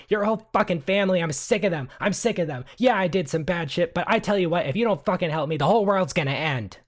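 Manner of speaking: high, loud furious rant; screaming. Acted. Woman screaming at the family, furious and loud. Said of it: "like, screaming".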